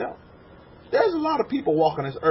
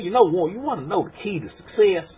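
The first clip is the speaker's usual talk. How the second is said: country twang; 3 semitones higher than usual. Retold or imitated. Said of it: "country twang".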